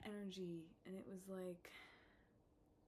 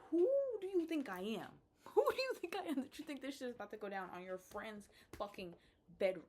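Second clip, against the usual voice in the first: much higher, much louder "who do you think I am"; indignant outrage; 5 semitones higher, 10 dB louder than usual. Retold or imitated. Retelling the party hookup attempt, indignant shout. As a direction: fling it back at him, offended.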